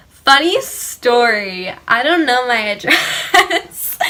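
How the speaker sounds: slow, drawn-out confession through a laugh; sheepish admission. Retold or imitated. Teen admitting to cop the address is unknown, sheepish. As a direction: stretch it out as an awkward mock confession.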